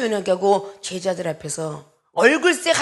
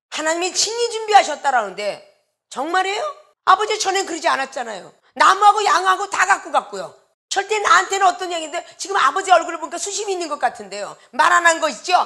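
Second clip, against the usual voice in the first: high, pressing, challenging tone. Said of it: "이러고 따져들었다는".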